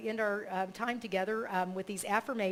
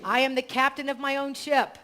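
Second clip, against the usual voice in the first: affirmation read; 4 semitones higher, 7 dB louder than usual. Shown as a demonstration. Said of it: "So I'll say it".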